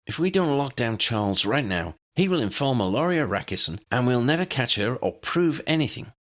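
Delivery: pressing the point urgently; arguing. A narrator's reading. Tully arguing with the Commandant, urgent and firm. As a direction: push back hard to persuade him. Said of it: "Tully argued".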